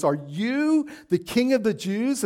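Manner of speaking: YOU stressed and stretched in an incredulous question; emphatic YOU. Retold or imitated. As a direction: lean hard on the word YOU. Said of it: "It was emphatic".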